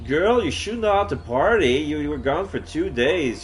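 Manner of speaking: teasing friend voice. Acted.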